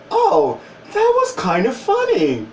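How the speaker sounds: laughing amusement. Retold or imitated. Adult amused by old nickname.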